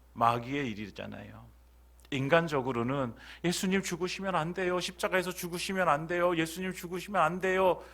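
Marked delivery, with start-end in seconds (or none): 3.5-7.8 higher, pleading with love; a mild tender plea from a disciple. Retold or imitated. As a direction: beg him not to die, tenderly. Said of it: "너무 애틋한 사랑의 표현일".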